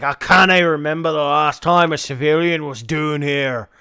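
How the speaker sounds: put-on lightly tried-out Scottish accent. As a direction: try on a rough Scottish voice. Trying out the Scottish character voice.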